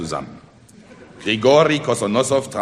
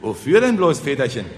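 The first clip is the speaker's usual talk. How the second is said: higher, inquisitive query; curious question; 4 semitones higher, 4 dB louder than usual. Acted. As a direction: ask with open curiosity. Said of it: "fragten neugierig die Bauern".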